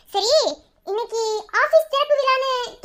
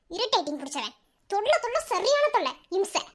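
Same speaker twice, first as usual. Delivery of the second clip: softer grumble to herself; annoyed muttering; 6 dB quieter than usual. Acted. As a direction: mutter your irritation as you leave. Grumbles while walking off. (முணுமுணுப்பாக எரிச்சல்)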